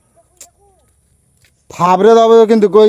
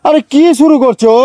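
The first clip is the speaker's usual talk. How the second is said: slow, raised call across the room; yelling across the room; 6 semitones higher, slower than usual. Real, not acted. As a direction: shout it slowly to someone far off. Calling over to sister. (দূর থেকে চেঁচিয়ে ডাকা)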